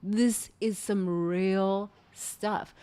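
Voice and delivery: slow, hushed awe; awed. Retold or imitated. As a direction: let it sink in slowly. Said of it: "I said".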